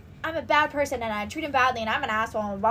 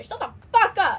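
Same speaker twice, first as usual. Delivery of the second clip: exasperated retort; 5 semitones higher, 5 dB louder than usual. Real, not acted. Ranting back at ex's comment.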